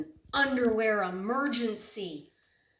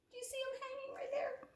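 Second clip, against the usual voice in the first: whisper; 8 dB quieter, faster than usual. Real, not acted. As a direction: lean in and whisper the secret. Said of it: "whispering to kids".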